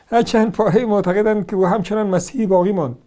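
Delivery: laughing through the quoted claim; reading it out with a laugh. Shown as a demonstration. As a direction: read the line while laughing at it.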